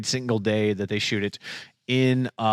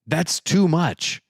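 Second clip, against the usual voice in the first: drawn-out protest; 5 semitones higher, much slower than usual. Acted. Mock complaint, slow.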